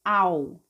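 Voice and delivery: "au" gliding from A into U; the L voiced as U in "au". Shown as a demonstration. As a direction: round off "au" with a U sound. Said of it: "ter um som de U".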